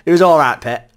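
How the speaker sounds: put-on Geordie accent. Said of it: "Geordie accent".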